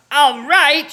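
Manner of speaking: high, loud indignant screech; yelled. A narrator's reading. Grandma yells back at George, loud indignant screech. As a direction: throw his words back angrily. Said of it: "she yelled".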